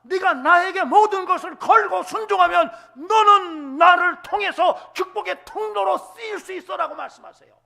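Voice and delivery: loud, high fiery sermon cry; preaching at full force. Acted. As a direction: thunder God's promise at the congregation.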